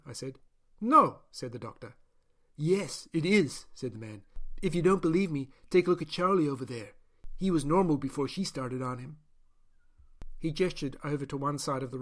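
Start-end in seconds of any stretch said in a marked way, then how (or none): 0.8-1.2 loud high snapped no; doctor firmly denying; sharp denial. Acted. Doctor flatly denies. 2.6-9.2 louder, rougher warning; caged man blurting a warning; blunt Gaian prisoner. Acted.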